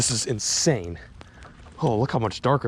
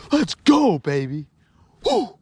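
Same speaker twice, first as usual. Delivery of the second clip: excited cheer; 9 semitones higher, 5 dB louder, slower than usual. Real, not acted. Celebrating a catch.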